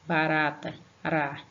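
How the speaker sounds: "Barata, ra" with a light tapped R; one quick tongue flick for the R in "Barata"; weak R. Shown as a demonstration. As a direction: isolate "ra" from "Barata" without force. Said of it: "Som fraco é isso".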